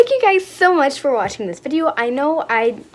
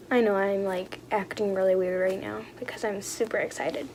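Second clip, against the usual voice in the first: sheepish admission; 5 semitones lower, 10 dB quieter, faster than usual. Real, not acted. Sheepish admission of acting weird.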